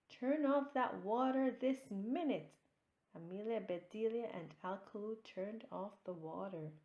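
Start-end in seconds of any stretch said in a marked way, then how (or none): 0.1-2.5 high, loud scolding command; angry order. A narrator's reading. Hostess ordering the hose turned off, angry shout. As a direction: snap the order, no nonsense. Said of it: "shouted Miss Ro-, Missus Rogers".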